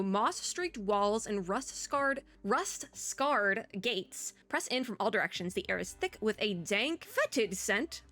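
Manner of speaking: deliberate, measured game-text narration; story narration. Acted. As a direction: read the grim scene-setting out carefully. Reads game's story text aloud.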